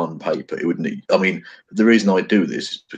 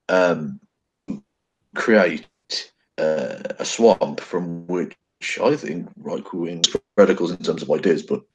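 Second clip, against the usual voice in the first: choppy, cutting out audio; bad connection. Real, not acted. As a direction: voice breaking up online. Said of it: "Kevin, you're breaking up a lot".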